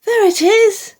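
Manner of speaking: high, loud cry of discovery; a witch spotting the dinosaur, shouting; excited shout. A narrator's reading. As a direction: call it out in delight. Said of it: "she shouted".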